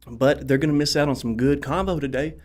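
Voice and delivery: breathless after running around; winded, talking between breaths. Real, not acted. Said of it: "I'm out of breath".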